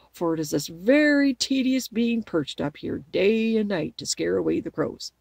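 lightly voiced scarecrow, loud at first; chatty scarecrow. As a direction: complain good-naturedly as a scarecrow. Scarecrow's complaint in story narration.

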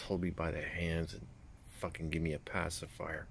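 talking around pipe stem; pipe in mouth. Real, not acted. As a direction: lips clamped on pipe. Seen 5: Pipe stem held between lips through most of the words.

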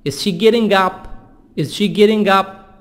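"getting" with tapped T; soft-D T. Shown as a demonstration. Teacher drilling a question, "getting" with soft D. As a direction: soften the middle of getting to a D. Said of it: "T soft D".

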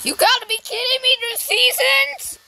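loud, high disbelieving shout; shocked outburst. Real, not acted. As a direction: yell it in total disbelief. Shocked by new game seasons.

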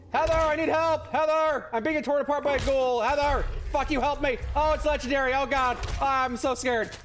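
high, hammed-up cries for help; mock-panicked calling. Player calling companion Heather during ghoul attack, playful panic. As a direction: call out as if being torn apart.

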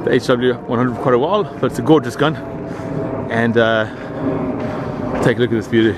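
stiff lips mumbling in the cold; mumbling with a frozen mouth. Real, not acted. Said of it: "If I'm mumbling, it's 'cause my mouth is frozen".

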